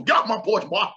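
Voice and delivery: put-on quivering-lipped old-school old man; shaky old man. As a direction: bark it like a trembly old man. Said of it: "with the quivering lip, with the old school".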